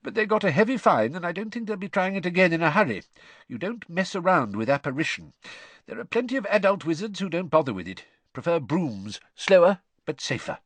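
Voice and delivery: lively, confiding explanation; earnest explaining father. A narrator's reading. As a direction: warn the listeners as a knowing dad. Story figure, father explaining.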